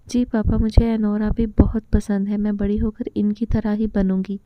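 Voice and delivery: ordinary delivery, nothing marked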